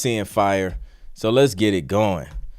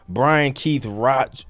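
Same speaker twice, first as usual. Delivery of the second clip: slow, catching on the throat; words stuck in the throat; choking; 2 semitones higher, much slower than usual. Real, not acted. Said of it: "excuse me, I'm choking".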